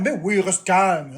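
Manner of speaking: slow, sarcastic drawn-out mock; slow sneering parody; sarcastic mockery. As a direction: drag it out to mock the advice. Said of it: "mocking chat's advice".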